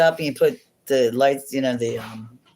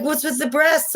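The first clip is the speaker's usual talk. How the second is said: much higher, hammed-up prying voice; mock outraged mom; 13 semitones higher than usual. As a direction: mimic the mom's accusing question. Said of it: "She's like".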